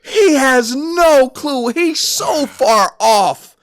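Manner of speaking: slow, drawn-out disbelief; a skeptic sneering to himself; scoffing inner thought. Retold or imitated. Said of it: "in my head, I was like".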